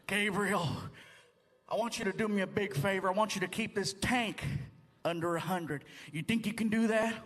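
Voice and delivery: a hint of a calm traffic cop; lightly voiced cop. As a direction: imitate an officer asking a favor. Acts the cop talking to him.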